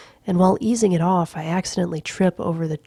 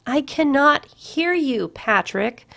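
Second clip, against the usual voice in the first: higher woman's voice calling out; calls out; 8 semitones higher, slower than usual. A narrator's reading. Courtney calling through the wall to Patrick, higher. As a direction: raise it to carry to the bathroom. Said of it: "she calls out".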